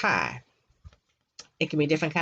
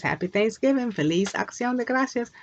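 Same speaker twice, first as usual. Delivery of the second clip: reading the napkin; 6 semitones higher than usual. Retold or imitated. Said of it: "It says".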